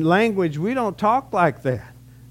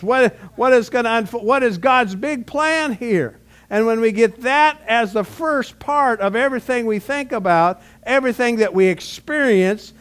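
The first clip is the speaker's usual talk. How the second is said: rising sermon delivery; 3 semitones higher than usual. Acted. Pastor urging his congregation to put God first, preaching with mounting force. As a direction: lift the voice and press the point home.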